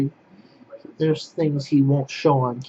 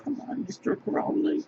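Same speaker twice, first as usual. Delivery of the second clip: much higher coaxing voice for the cat; high pet-talk; 14 semitones higher, 5 dB quieter than usual. Real, not acted.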